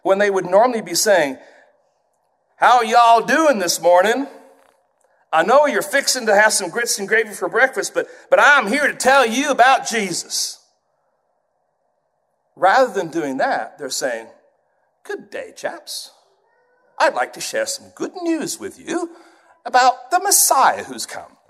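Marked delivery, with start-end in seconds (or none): 2.6-10.6 loud, high-pitched Southern drawl; Deep South drawl. Acted. Preacher mimics a Southerner greeting folks and telling about Jesus, Deep South drawl. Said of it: "someone from the deep south who normally speaks with a drawl". 15.0-21.4 put-on proper English accent. Preacher mimics a Southerner suddenly talking properly, proper English accent. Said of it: "suddenly speaking proper English".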